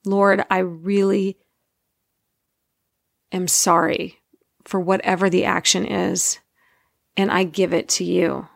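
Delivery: heartfelt, measured plea for forgiveness; sincere apology. Acted. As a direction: pause and mean every word. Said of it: "when you sincerely ask for forgiveness".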